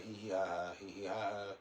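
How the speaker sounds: a mocking, silly little giggle in a put-on voice; mock giggling. Mocking people who lock angels away, with a silly giggle. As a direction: sneer a childish hee hee ha ha. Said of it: "then you like".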